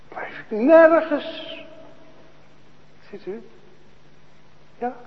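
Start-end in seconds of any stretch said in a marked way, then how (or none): none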